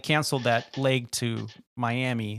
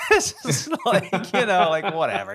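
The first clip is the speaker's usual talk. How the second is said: mock careless; 6 semitones higher, 5 dB louder than usual. Mocking careless passenger.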